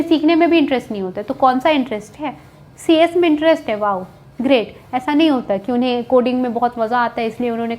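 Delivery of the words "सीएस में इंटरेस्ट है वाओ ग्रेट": mock admiration. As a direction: feign being impressed, then let it sink. Mocks claimed interest in CS.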